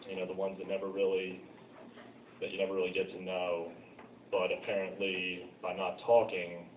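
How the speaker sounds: reflective personal monologue, with pauses between phrases; monologue recital. Acted. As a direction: recite it from memory, pausing as you go. Recites own monologue from memory.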